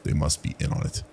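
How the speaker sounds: plain reading voice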